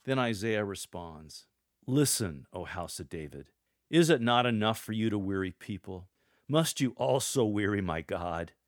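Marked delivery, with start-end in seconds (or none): 1.9-8.5 a touch of restrained anger, louder; hint of a held-back temper; annoyed. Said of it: "Your tone of voice here should evoke annoyance".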